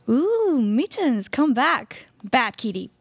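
high scolding cat lady voice, bad kitty squeaked up. Cat lady scolding her runaway cat, high fussy voice.

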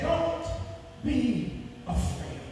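quiet, slow don't be afraid; soft reassurance. Acted. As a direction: soothe them gently. First quote, soft.

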